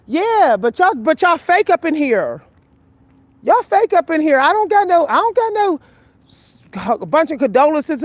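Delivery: defiant, rising indignation; heated retort. Retold or imitated. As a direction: throw it at the room, raising the pitch. Retorts to fake in-laws.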